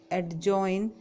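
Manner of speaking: "एडजॉइन" with the D sounded; common mispronunciation. Shown as a demonstration. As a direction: say "एडजॉइन" as ad-join, D before the J. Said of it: "इसमें डी silent होता है".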